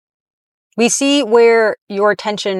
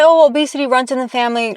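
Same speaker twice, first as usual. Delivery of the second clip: higher, quick sing-song mock of an excuse; a light whiny parody of what people say; 4 semitones higher, faster than usual. Vlogger mimicking people's excuse, mild mock whine. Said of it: "people say".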